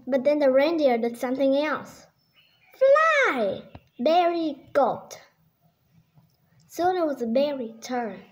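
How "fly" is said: called command. Acted. Elf calls the test command.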